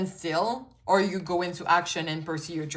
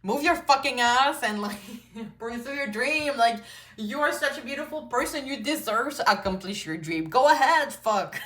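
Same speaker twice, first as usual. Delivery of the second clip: tough love cussing; 4 semitones higher than usual. Retold or imitated. Best friend swearing at you to go pursue it, raised and pushy. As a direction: shove them forward with a grin. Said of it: "talking like that".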